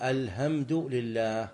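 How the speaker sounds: slow "الحمد لله" with a non-Arab h for ḥ; foreign imam reciting. Shown as a demonstration. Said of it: "تصلي خلف رجل أعجمي".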